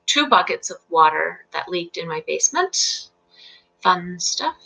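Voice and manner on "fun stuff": dry, understated sarcasm; sarcastic. Real, not acted. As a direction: say it softly as if you mean the opposite. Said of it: "Being sarcastic there".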